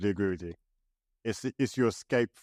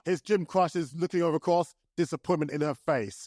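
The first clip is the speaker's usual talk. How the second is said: sports commentator; 5 semitones higher than usual. Pretend. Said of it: "over-the-top sports commentator voice".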